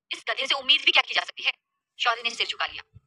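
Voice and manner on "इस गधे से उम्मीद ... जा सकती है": mild scolding scorn; a touch of exasperated rebuke. Acted. Ashish dismissing Shaurya as hopeless, mildly scolding. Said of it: "आशीष ने डांटते हुए कहा".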